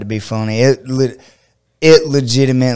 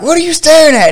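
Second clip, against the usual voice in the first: high, loud imitation of a worked-up man; mock hostile yell; 4 dB louder, faster than usual. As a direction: play the angry truck dude. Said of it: "And like".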